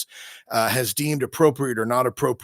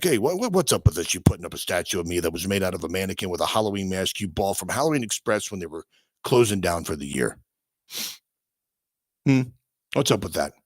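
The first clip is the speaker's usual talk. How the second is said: offended Satan; 4 semitones lower than usual. Pretend. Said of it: "Satan's like".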